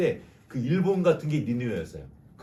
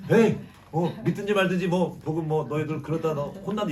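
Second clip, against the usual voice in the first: careless preaching; 3 semitones higher, 3 dB louder than usual. Retold or imitated. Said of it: "이렇게 대충 다 전하고".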